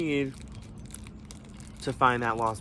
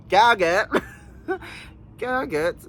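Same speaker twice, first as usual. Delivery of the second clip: gag it; 8 semitones higher, 5 dB louder, slower than usual. Real, not acted. Repeated gagging exclamation.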